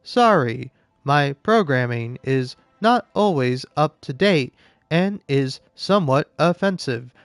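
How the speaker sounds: lightly voiced robot apologizing; a hint of a robot reading its code. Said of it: "when you do a robot voice bit".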